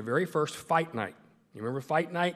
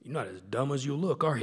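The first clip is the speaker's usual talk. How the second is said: lightly imitated boxing champ; teasing jab in a rough champ impression; Muhammad Ali. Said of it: "gonna do my Muhammad Ali impression".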